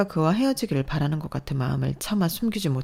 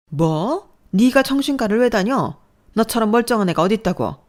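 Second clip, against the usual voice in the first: loud, high, disbelieving; shocked disbelief; 6 semitones higher, 7 dB louder than usual. Acted. Mother hearing of psychiatric care, shocked. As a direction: reel at the news.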